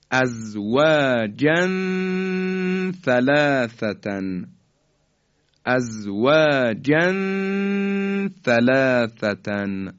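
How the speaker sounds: "ازواجن ثلاثتن" slowly, tanween held as a hum before tha; ikhfa. Shown as a demonstration. Teacher models tanween at tha, slow ikhfa. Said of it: "این طرز اخفای".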